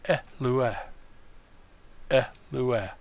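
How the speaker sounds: L U R with the L set apart and stressed; L U R broken after an accented L; accent on first syllable. Shown as a demonstration. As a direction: hit the L, pause, then U R. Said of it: "will land above".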